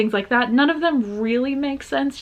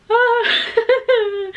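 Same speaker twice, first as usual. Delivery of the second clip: a high burst of laughter; surprised laugh; 11 semitones higher than usual. Real, not acted. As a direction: laugh out in delighted shock. Laughs at the song's start.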